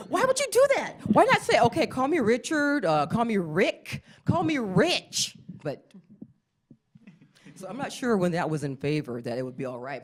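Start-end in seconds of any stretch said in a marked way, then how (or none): 0.1-5.4 exasperated. Acted. Exasperated comic pleading.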